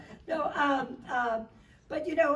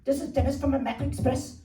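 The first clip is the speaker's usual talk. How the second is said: put-on Irish accent, officious and rude; mock Irish accent, building louder into a warning; rude Irish-accented agent; 6 dB louder than usual. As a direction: play a rude call-centre clerk with an Irish accent. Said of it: "rude voice going".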